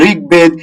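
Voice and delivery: ঋগ্বেদ said "rig-bed", b fully sounded; ঋগ্বেদ with a clear b after the g; unchanged b. Shown as a demonstration. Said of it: "এগুলো same".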